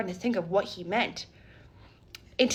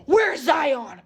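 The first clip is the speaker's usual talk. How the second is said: louder mock-frantic call; hammed-up worried shout; imitated panic; 3 semitones higher, 5 dB louder than usual. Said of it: "panic all over, right on her face".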